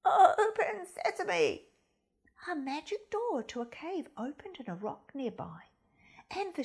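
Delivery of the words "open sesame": loud, slow commanding call; sheep's cry. Acted. Head sheep calls to the cave, loud and slow. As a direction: boom it out to open the rock. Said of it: "meanest looking sheep cried".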